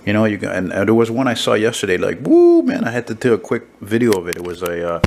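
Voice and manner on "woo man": loud, high whoop of amazement; excited whoop. Retold or imitated. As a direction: blow up with delight at the bike. Reacting to a motorcycle he saw.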